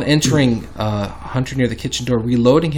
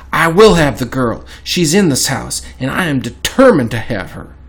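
louder, determined declaration; storming in; 5 dB louder than usual. Acted. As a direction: read it as a forceful demand. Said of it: "Hunter came storming in, saying".

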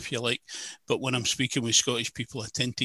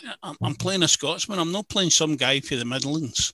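higher-pitched retold objection; mock protest; 4 semitones higher than usual. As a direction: protest to the director, replaying the argument.

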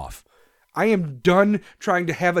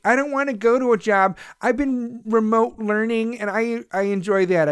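mocking lazy kid; 4 semitones higher than usual. Ranting man mocks remote learners, mock whine.

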